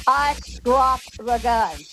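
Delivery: slow, measured lawman's order; slow stern command. Retold or imitated. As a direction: give the order word by word. Retelling Wyatt's stern order.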